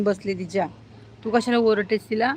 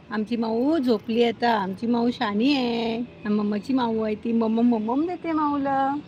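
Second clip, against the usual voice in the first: cooing pet talk. Real, not acted. Owner tells the dog about the sleeping cat, cooing. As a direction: lull a pet along, drawing words out.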